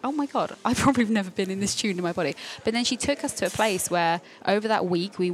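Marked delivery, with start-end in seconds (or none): 0.0-2.3 amazed realisation. Retold or imitated. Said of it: "I was like".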